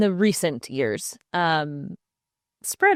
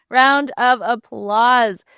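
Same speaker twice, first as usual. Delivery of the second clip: hammed-up cheer; 5 semitones higher, 6 dB louder, much slower than usual. Repeat louder, slow, laughing.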